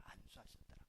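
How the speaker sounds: whispered answer, breath only; whispered echo. Shown as a demonstration. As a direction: whisper the answer back softly. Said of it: "어떻게 했다고요?". (안수하셨더라를 숨소리로 속삭이듯)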